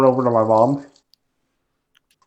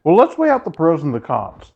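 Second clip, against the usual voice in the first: mocking impression; 3 semitones higher than usual. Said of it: "he does this all the time".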